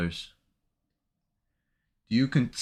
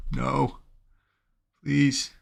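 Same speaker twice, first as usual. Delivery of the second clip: higher, gasping plea at the chart; desperate pleading; 5 semitones higher than usual. Real, not acted. Trader begging his chart, gasping higher plea. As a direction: beg the price not to move. Trade moving against him.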